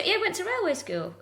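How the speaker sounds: comic Eastern European put-on; Eastern European accent. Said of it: "doing the generic Eastern European".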